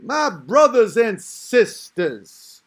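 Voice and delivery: slow, loud preaching; Farrakhan preacher voice. Retold or imitated. Imitating Farrakhan addressing the crowd, slow and loud. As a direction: draw it out like a pulpit opener. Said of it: "Farrakhan could literally be like".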